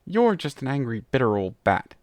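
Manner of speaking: loud scornful insult; cursing. Acted. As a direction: throw the insult at her. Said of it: "Tirek cursed".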